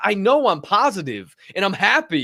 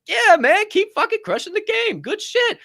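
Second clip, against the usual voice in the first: much higher, pumped-up gym encouragement; excited hype; 13 semitones higher, 4 dB louder than usual. Retold or imitated. To the new kid at the gym, pumped-up encouragement. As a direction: cheer the kid on like a hype man.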